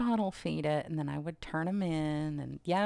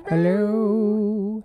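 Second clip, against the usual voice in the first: loud echo hello; 2 semitones higher, 9 dB louder than usual. Pretend. Echoing hello bit.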